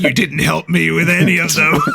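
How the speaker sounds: whiny game character voice. Retold or imitated. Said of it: "who's just like".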